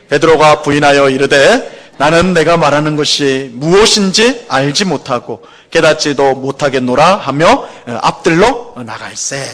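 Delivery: slow, measured congregational Bible reading; deliberate, evenly paced recitation of scripture. Acted. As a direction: lead everyone in reading the verse aloud, firmly and slowly.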